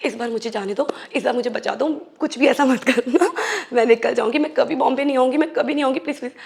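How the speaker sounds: pleading under her breath, half-acted; retold frantic prayer. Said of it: "मैं बस अपने prayer करे जा रही थी".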